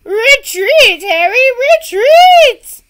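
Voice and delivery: very high, loud cry; retreat cry. Acted. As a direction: yell the retreat. Knight fleeing.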